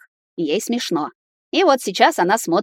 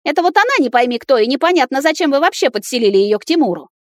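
high, loud indignant rant; outraged; 7 semitones higher, 4 dB louder than usual. A narrator's reading. Girlfriend rants at the granny, high and loud. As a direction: vent the outrage.

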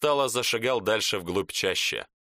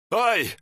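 a high, loud yelp as the hand burns; sharp cry of pain; 10 semitones higher, 4 dB louder than usual. Acted. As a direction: yelp like a scalded man. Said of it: "воскликнул мёртвый красноармеец".

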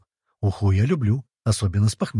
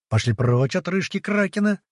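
higher-pitched, restrained narrator's yell; mild mock yell; 8 semitones higher than usual. A narrator's reading. Trapped god warning intruders off, mildly yelled. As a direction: cry out higher without much volume. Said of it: "донёсся до нас вопль мужика".

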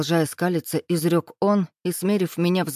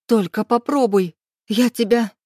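high, loud, cut-off threat; girl threatens Max before the door opens; furious threat; 4 semitones higher, 4 dB louder than usual. A narrator's reading. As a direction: lunge at him with the words.

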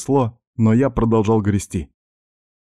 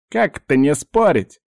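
higher, jittery objection; high nervous voice; 7 semitones higher, 3 dB louder than usual. Acted. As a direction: protest in a high, fretful voice. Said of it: "возразил ему высокий нервный голос".

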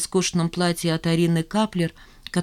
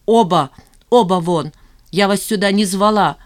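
louder, furious command to leave; loud ordering out; 3 semitones higher, 6 dB louder than usual. A narrator's reading. Zhanna ordering both men to get out, loud and furious. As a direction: throw them both out of the room.

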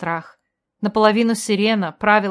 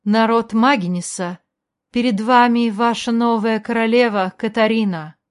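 proclaiming; 2 semitones higher, 3 dB louder than usual. A narrator's reading. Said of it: "развернулась к ним и провозгласила".

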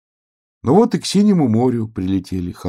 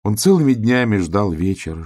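ordinary delivery, nothing marked

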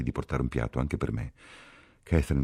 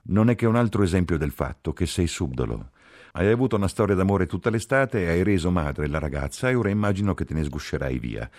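higher, louder angry tirade; indignant accusation; 5 semitones higher, 6 dB louder than usual. A narrator's reading. Ferguson accuses the lover of seducing her friend, indignant. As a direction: lay into him, outraged.

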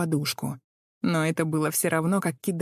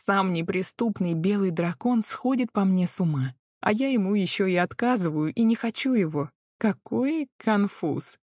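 sweet; 3 semitones higher than usual. Acted. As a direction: coo it with fake pity. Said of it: "Я произнесла это сладко".

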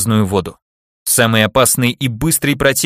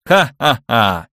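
slow ghostly cackle; mock spooky laugh; much slower than usual. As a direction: drag out a teasing ha-ha-ha. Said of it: "передразнивая обиженных на весь свет скелетов".

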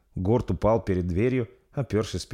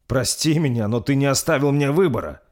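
kneeling prince, higher and louder, pleading; trembling plea; 6 semitones higher, 4 dB louder than usual. Acted. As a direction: beg with trembling lips. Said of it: "дрожащими губами произнёс принц".

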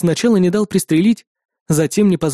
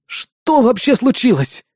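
strained; 5 semitones higher, slower than usual. Acted. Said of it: "выдавил Сайков".

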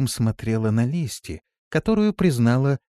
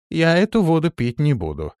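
loud, higher firm refusal; determined; 7 semitones higher, 5 dB louder than usual. A narrator's reading. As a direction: flatly refuse the water. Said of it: "заявила она решительно".

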